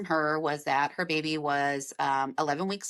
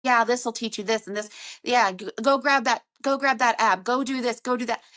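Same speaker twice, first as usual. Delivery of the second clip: mocking breezy advice-giver; flippant advice; 4 semitones higher, 4 dB louder than usual. Mocking others who tell a mother to just grab an app, flippant. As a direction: toss off the advice carelessly, a bit louder. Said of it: "all those little flippant things that people tell you".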